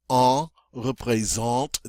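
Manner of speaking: drawn-out nasal "en", then "représente" with that vowel; French nasal sound. Shown as a demonstration. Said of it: "your nasal sounds".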